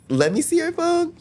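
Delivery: high, slow mimic of a suspicious mom; mom demanding. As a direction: demand the phone like a wary mother.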